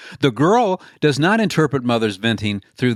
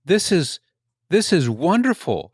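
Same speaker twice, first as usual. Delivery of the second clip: delighted; 6 semitones higher than usual. Retold or imitated. Boy delighted by mother's respect.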